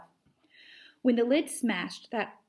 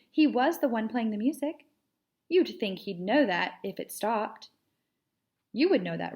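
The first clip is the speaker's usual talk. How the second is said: a hint of a smug young cat, pitched up; Edith the cat; 3 semitones higher than usual. Edith lecturing Stick Cat about the music, mildly smug.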